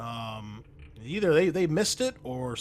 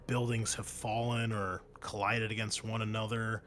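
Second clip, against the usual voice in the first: game master narration; 3 dB quieter than usual. Acted. Game master describes the war-torn city, narrating. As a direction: draw out the description of the ruins.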